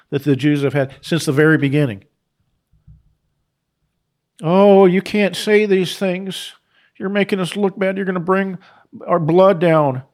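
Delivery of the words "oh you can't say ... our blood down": slow, drawn-out mock protest, a bit higher and louder; hammed-up mock complaint; mocking whine. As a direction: parody the complainers, stretching out the oh.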